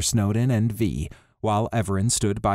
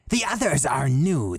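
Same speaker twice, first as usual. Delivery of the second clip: lightly raised voice for the leader; Riz's voice; 5 semitones higher than usual. Acted. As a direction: voice Riz a touch higher and unhurried. Riz, a character voice.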